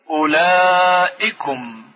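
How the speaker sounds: اولائکم drawn out with a short vowel; اولائکم read slowly, no long و; slow recitation. Shown as a demonstration.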